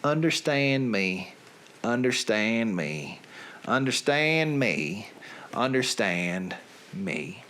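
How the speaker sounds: a lightly put-on Southern accent. Reading song lyrics to his listeners, in a light Southern accent. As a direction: read the lyrics in a hint of Southern drawl. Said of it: "with a Southern accent".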